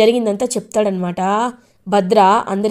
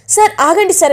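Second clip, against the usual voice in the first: calling out; 9 semitones higher, 5 dB louder than usual. Acted. Vasudhara calls after Rishi.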